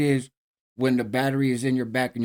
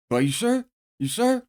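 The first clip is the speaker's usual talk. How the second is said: imitating excited disbelief; 10 semitones higher than usual. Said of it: "he's getting excited".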